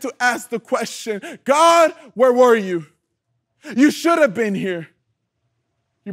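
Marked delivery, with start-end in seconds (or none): 1.4-4.9 loud, pained demand to God; anguished cry. Acted. Preacher voices the bereaved asking God, crying out. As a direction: cry it out as an accusation. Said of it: "isn't that the cry we do".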